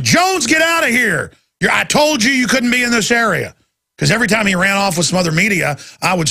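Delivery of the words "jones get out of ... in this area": lightly voiced panicked official; mild mock alarm, a bit higher; freaking out. Officer throwing the reporter out, mock panic. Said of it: "freaking out, going".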